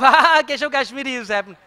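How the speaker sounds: a quick jeering ha ha ha; mocking laugh.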